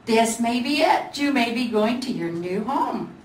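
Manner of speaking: lightly excited send-off; hopeful Gingerbread Boy. Acted. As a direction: friend wishing the bear well.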